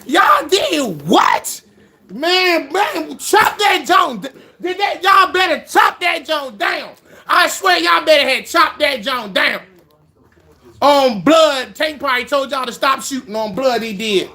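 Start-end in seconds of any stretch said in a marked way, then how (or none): 0.1-9.6 angry shouting. Real, not acted. Streamer threatening the hunters over Tank, angry shouting. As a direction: bark the threats at the screen.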